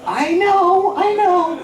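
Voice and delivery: very high, sustained mock-sheepish voice; high-pitched admission. Owning up to the audience about his trick, high-pitched. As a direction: squeak it out on one held high note.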